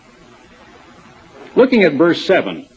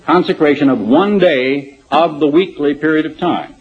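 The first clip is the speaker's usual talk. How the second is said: "one" hit firmly, the rest even; stress on one. Shown as a demonstration. Preacher pointing his congregation to the word "one", stressed. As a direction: lean on "one" to make the point. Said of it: "Notice that".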